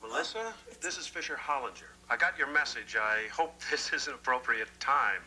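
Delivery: suitor's voice through the answering machine; calm and polite, like a recording; phone message. Acted. Bookstore owner invites her on tape, via the machine.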